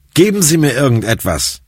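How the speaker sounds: a touch of desperate begging; pleading. A narrator's reading. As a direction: plead for anything to stop the pain. Patient begs for painkillers.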